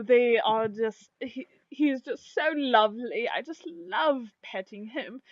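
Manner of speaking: lightly voiced swooning shopkeepers; excited gushing. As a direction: gush adoringly, lingering on the praise. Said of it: "in synchronized motion and excitement".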